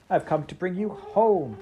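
put-on high, eager little girl; a small sister bursting with news, voiced high. Little sister fetching her brother home, high and eager. Child Fan greets brother.

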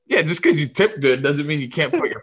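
mock outrage breaking into laughter; amused rant with a chuckle in it; laughing scolding.

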